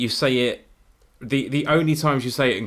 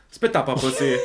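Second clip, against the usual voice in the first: Jamaican dancehall. Retold or imitated. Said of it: "it sounds like a Jamaican dancehall song".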